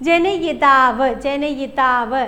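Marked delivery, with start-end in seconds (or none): 0.1-1.1 very slow, syllable by syllable; slow careful spelling-out. Shown as a demonstration. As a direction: draw the word out for dictation. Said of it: "പല പരീക്ഷകൾക്ക് ചോദിച്ചിട്ടുണ്ട്". (പതുക്കെ ഉച്ചരിക്കുന്നു)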